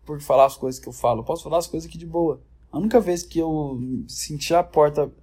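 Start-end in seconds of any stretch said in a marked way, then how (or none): 2.7-5.1 porta with a rolled Goiás r; Goiás accent. Real, not acted. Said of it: "falei igual um goiano agora". (sotaque goiano no porta)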